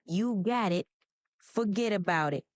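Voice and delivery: Brooklyn-accented catchphrase. Shown as a demonstration. Assistant echoing the user's catchphrase, Brooklyn accent. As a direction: answer like someone from Brooklyn. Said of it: "what would someone from Brooklyn say".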